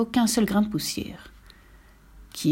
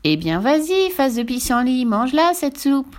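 commanding witch; 4 semitones higher, 4 dB louder than usual. Acted. Witch orders the boy.

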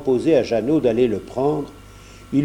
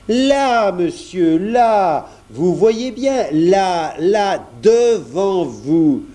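much higher, louder, slowing down as he points; insistent grocer; 5 semitones higher, 3 dB louder, much slower than usual. A narrator's reading. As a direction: grocer patiently insisting, voice raised. (épicier insistant, voix haute et plus forte)

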